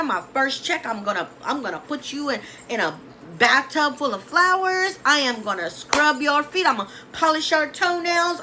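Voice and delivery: a hammed-up grateful fan; fawning gratitude. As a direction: heap on the thanks like they saved your life. Gushing over famous friend.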